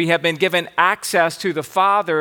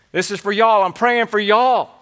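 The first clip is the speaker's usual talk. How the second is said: lightly put-on Southern accent, slightly raised; 3 semitones higher, 3 dB louder than usual. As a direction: play the apostle with a touch of Southern "y'all". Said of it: "if he had a good Southern accent".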